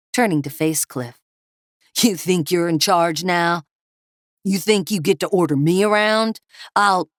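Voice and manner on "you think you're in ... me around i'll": angry thug. Acted. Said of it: "Kevin yelled".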